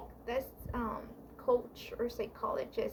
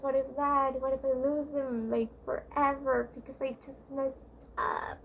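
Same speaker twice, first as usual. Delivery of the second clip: a touch of nervous fretting, a bit louder; anxious inner voice; 4 dB louder than usual. Retold or imitated. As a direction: rattle off the worries like someone biting their nails. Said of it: "probably biting your nails and like".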